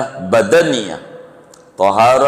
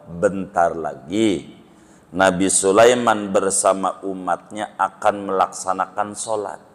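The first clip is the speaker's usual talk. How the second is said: mother cow; 3 semitones lower, 4 dB quieter than usual. Acted. Mother cow explains, calm.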